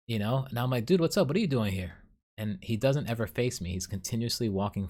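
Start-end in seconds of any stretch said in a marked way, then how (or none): 0.8-1.9 higher, excited "dude, what's up"; happy to spot an old coworker; surprised greeting. Retold or imitated. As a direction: call out in pleased surprise. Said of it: "mimic what he said".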